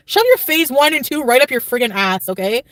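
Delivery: telling him off in a retold rage; half-playful furious reply; angry retort. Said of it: "So I got really mad".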